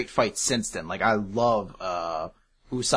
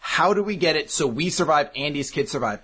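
panicked; 5 semitones higher than usual. Retold or imitated. Heroes panicking in plane crash.

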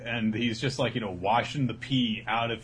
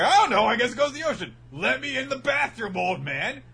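put-on high, fast, cheeky kid; squeaky impatient child; bratty kid voice; 12 semitones higher, 6 dB louder, faster than usual. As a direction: rattle it off like a snotty boy. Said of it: "Chaco's like".

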